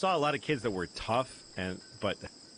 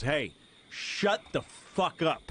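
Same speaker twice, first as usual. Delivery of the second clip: mock angry shout; 6 semitones higher, slower than usual. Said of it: "he goes".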